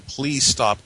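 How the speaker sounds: mock ghostly scream. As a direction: copy the ghost's plea. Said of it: "this ghostly woman's voice scream".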